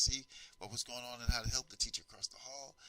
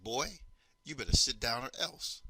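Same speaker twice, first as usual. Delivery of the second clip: stern teacher threat; 2 semitones higher, 5 dB louder than usual. Retold or imitated. Teacher threatens defiant student.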